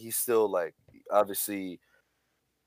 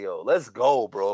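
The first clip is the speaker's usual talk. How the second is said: gym bro; 3 semitones lower than usual. Retold or imitated. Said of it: "you're giving me hype right now".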